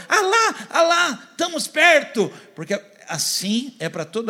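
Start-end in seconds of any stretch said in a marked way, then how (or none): 0.1-2.3 high, loud delighted cry; thrilled traveller calling out; excited spotting. Retold or imitated. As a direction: point and shout that you are nearly there. Acted joy at seeing the sign.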